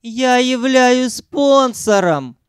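high, slow, drawn-out; Sanyok's high voice. A narrator's reading. Sanyok repeating his old line, high and slow. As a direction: stretch it out like a broken record. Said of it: "завёл старую пластинку Санёк".

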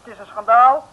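indignant protest. Acted. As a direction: vent outrage at the guard. Sientje protests the conditions.

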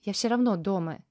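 plain reading voice

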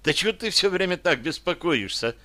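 pitched high in indignant protest; mild indignant outburst. A narrator's reading. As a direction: throw the question back, indignant. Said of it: "возмутилась девчонка".

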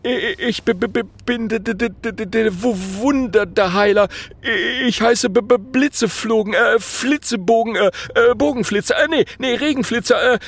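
high, stuttering, flustered voice; stammering prince. A narrator's reading. Nervous prince stammers his name to the dragon, high and flustered. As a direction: stumble over every word, scared.

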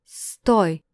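loud sharp shout to stop her. Acted. Dmitry shouting after the fleeing Sandra, loud cry. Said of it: "послышался крик Дмитрия".

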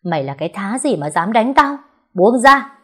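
climbing to a loud, high scream. Acted. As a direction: yell to be let go. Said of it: "không ngừng la hét".

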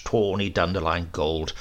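ordinary delivery

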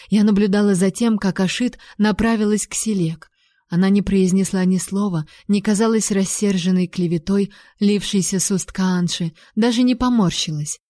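ordinary delivery, nothing marked

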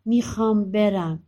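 slow, firm demand to go; insistent. Acted. Son pleads with mother to let him go, insistent.

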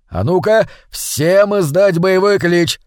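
high, slow, loud rallying command; rally the brothers to a battle cry; commanding call. A narrator's reading. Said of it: "скомандовал он братьям".

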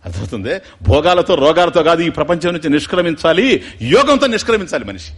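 ordinary talk

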